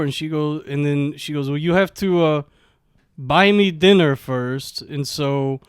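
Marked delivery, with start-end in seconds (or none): 1.5-4.8 lightly imitated Russian accent; mild mock Russian; thick Russian accent. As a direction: retell her demand in a Russian accent. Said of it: "she has, like, a thick Russian accent".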